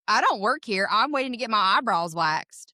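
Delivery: lightly imitated Southern American accent. Retelling what the customer literally said, Southern American accent. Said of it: "Southern American accent".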